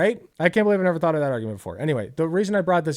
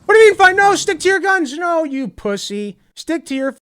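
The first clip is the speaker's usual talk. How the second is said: much higher and louder, yelling in outrage; angry shout; 8 semitones higher, 5 dB louder than usual. Real, not acted. Streamer yelling at Pam on screen to hold firm, furious shout. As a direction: bellow at her not to back down.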